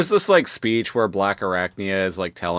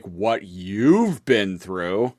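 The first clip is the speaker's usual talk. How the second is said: incredulous Silverbolt; much slower than usual. Retold or imitated. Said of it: "he's like".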